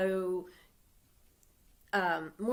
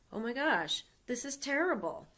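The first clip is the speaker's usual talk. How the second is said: a hint of a shocked king, pitched up; lightly voiced dismay; mock horror, rising on terrible; 4 semitones higher than usual. King reacts to Haman's plot.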